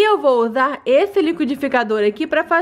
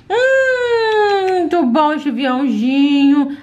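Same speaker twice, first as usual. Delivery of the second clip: put-on little girl voice; slower than usual. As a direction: play a small eager child. Doll child eating.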